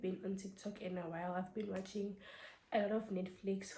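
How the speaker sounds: breathless from a cold; short of breath, tired voice; running out of air. Real, not acted. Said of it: "I'm running out of breath because I have a cold".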